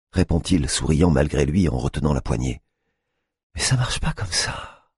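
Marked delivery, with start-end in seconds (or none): 3.5-4.9 soft whispered reply; murmured. Acted. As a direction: whisper it as you try to close the door. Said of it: "murmure-t-elle".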